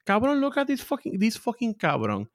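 hammed-up Puerto Rican broken English; broken English insults. Shown as a demonstration. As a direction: hurl mock insults in exaggerated broken English. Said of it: "when I speak in broken English".

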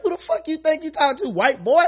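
hammed-up indignant yell; mock angry confrontation. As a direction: fire it off like calling someone out. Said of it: "I was like".

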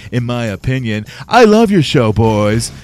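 man lightly doing a woman's voice; Lulu voice. Retold or imitated. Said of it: "That's just me doing, uh, your girl Lulu's voice".

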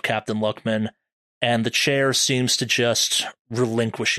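measured, suspenseful scene setting; game master narration. Acted. Game master returns to the deer scene, suspenseful narration.

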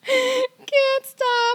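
high, helpless laughter; laughing fit. Real, not acted. Co-host in a high laughing fit. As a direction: give in to it.

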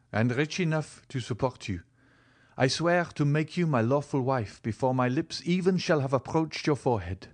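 lightly voiced young man making a vow; Morrel, earnest. Morrel vows marriage.

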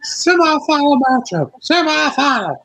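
high, slow announcer call; lightly hammed-up match announcement; mock announcer. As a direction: boom it out like a ring announcer.

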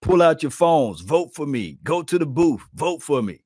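half-hearted impression of a player begging; mock vote plea. Host mocks Michael Irvin urging fans to vote, light mock plea. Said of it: "Michael Irvin had to say".

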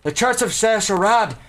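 lightly voiced proclaiming bard; grand rhythmic bard. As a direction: announce the news to the crowd. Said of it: "I got him my bard voice back".

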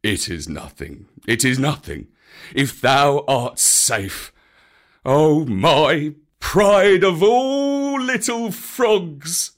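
high, slow, tearful bear; whimpering Baloo. A narrator's reading. Baloo whimpering with relief as he hugs Mowgli. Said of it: "whimpered Baloo".

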